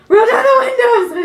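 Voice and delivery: loud high yell breaking into a laugh; laughing panicked scream. Retold or imitated. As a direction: shout it like a horror movie victim. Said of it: "I screamed".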